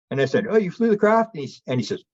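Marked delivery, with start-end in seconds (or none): 0.5-1.3 high, amazed "you flew the craft?"; surprised question. Retold or imitated. Speaker hearing David flew the craft, high surprised question. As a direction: sound genuinely taken aback.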